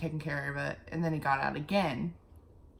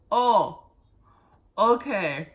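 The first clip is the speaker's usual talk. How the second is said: surprised oh okay; 3 semitones higher, 9 dB louder, slower than usual. Retold or imitated. Reacting to shelter lady's advice.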